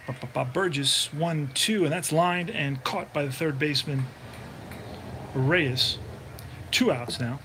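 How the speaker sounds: steady broadcaster voice calling each pitch; play-by-play call. Acted. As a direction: call the game like a radio announcer. Back to calling the game.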